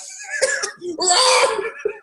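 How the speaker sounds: incomprehensible growl. Acted. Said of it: "Yeah, he's incomprehensible".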